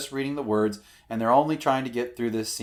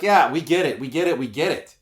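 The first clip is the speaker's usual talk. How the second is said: bored casting room; 3 semitones higher, 7 dB louder than usual. Retold or imitated. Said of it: "And everybody's like".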